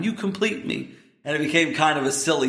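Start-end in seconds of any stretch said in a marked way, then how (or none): 0.0-0.9 mock crying. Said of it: "and he's crying".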